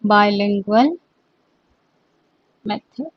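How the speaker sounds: the words bilingual method set apart and spaced; dictating bilingual method softly and slowly; slow dictation. Shown as a demonstration. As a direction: say bilingual method slowly so students can write it. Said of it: "repeated slowly for dictation".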